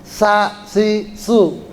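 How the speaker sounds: Sa, si, su with tongue between teeth; tha drill. Shown as a demonstration. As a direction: drill sa si su with the dental th sound. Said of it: "itu makhrajnya sama". (latihan sa si su dengan lidah di gigi)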